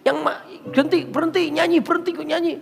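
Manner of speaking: high-pitched mock yell of a demon; high, agitated screech, acted out; imitated demonic yelling. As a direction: yelp it, demanding the singing stop. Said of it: "Saya di-, diceriakan".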